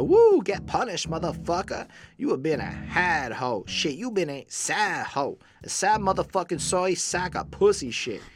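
clown voice, starting with a high, loud whoop; imitating a rapper. Retold or imitated. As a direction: imitate a rowdy clown rapper. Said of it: "coming in with his clown-ass voice".

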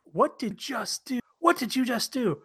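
high, soft, stunned questioning; slow, hushed mock disbelief. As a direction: act out quiet horrified bafflement. Acted disbelief at the trainee.

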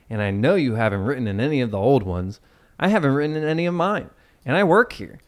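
upbeat commercial read; hard sell ad. Acted. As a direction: sell it like a TV spot. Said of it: "I have to read this like an ad".

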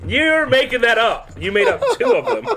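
incredulous accusation. Real, not acted. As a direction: protest in squeaky shock. Accusing in disbelief.

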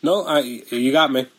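tinny phone line, no bass; sounding like through a tin can. Real, not acted. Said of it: "You sound like you're in a tin can".

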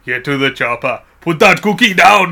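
slow, loud bad Schwarzenegger shout; Arnold impression. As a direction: ham it up like a weak action hero. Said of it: "That was bad".

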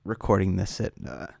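quiet at night. Real, not acted. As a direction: speak softly, late at night. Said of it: "I should be a little bit quieter".

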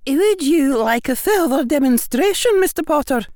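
amused witch voice. A narrator's reading.

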